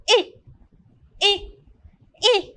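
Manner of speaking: "eh" said as the long a, like the letter name, three times; long a sound. Shown as a demonstration. Teacher modelling the long A sound for the class. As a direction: drill the long "eh". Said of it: "I say the A sound".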